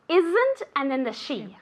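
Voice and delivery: buzzed "isn't", then a separate hushed "she"; z versus sh. Shown as a demonstration. Teacher contrasting sounds for a student, "isn't" buzzed and "she" hushed. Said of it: "hear that difference between".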